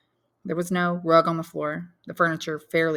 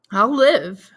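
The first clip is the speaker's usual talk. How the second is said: a louder cry of the mother; mother's cry; 6 semitones higher, 11 dB louder than usual. Acted. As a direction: cry out the words in grief. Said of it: "cried Mercédès".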